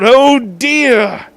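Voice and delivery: dramatic gasp. A narrator's reading. Dramatic narration exclamation.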